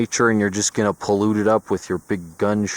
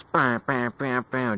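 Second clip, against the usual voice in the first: imitated gunshots; 3 semitones higher than usual. Imitates distant gunshots he heard.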